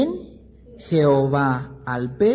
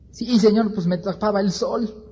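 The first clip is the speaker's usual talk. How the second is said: higher, pouty whine; sulky reply; 5 semitones higher than usual. Acted. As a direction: answer like a sulking child. Jonás answering God.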